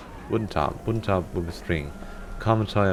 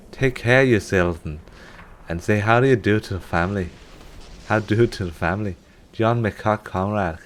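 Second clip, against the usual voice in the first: mock Scottish accent. Reading a Scottish soldier's letter aloud in a mock Scottish accent. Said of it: "Am I Scottish? Accent is not good".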